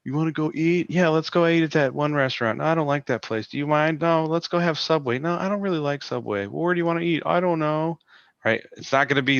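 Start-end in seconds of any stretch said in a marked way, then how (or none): 0.0-8.0 higher-pitched mock back-and-forth over where to eat; bickering friends. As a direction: act out two indecisive friends, pitched up. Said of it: "sit there with your friend and be like".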